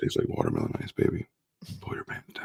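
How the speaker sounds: creepy, seductive, breathy whisper in a male voice. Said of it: "a sexy man".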